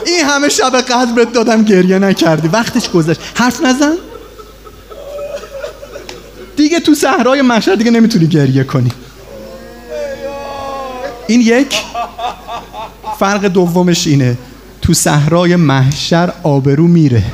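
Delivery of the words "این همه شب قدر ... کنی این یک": God's rebuke. Retold or imitated. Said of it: "God scolds on judgment day".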